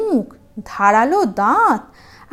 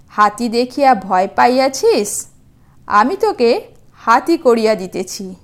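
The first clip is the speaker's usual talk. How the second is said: louder, gently teasing sage voice; a wise hermit chiding a scared tiger; kindly sage; 4 dB louder than usual. Acted. Sage teases then reassures tiger.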